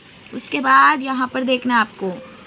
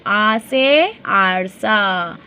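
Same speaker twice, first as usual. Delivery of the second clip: slow phonics reading; 4 semitones lower, much slower than usual. Shown as a demonstration. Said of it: "आ पासून काय येणार".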